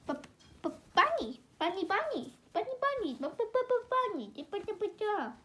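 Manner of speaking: high, stuttering malfunction; glitching stutter. Acted. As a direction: stutter like a broken machine.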